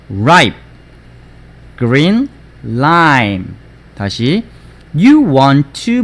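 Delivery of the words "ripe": "ripe" shut off on an unreleased p; lips closed ending. Shown as a demonstration. Teacher drills the final P, "ripe" ending with lips closed. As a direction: close the lips to end "ripe", nothing after. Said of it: "입이 다물어져야 돼".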